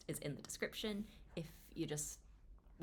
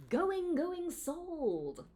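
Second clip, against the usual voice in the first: much higher and louder, a playful auctioneer's cry; auctioneer call; 9 semitones higher, 4 dB louder, much slower than usual. Acted. Teasing the next chapter to viewers, playful auctioneer call. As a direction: bang the gavel on the last word.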